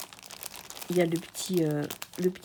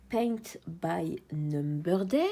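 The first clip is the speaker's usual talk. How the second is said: slow, careful English brand name in a French accent; self-mocked English accent; 3 semitones lower, much slower than usual. Real, not acted. French vlogger reading an English brand name to viewers, in a slow awkward English accent. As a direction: spell out the English name slowly, knowing your accent is clumsy. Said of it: "mon accent anglais est toujours aussi merveilleux".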